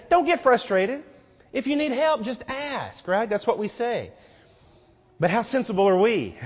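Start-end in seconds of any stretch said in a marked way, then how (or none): 0.1-3.1 soothing parent. Retold or imitated. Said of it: "And then we say".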